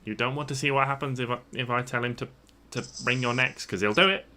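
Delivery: a hint of goblin menace; lightly voiced goblin threat. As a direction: goblin warning party about troll.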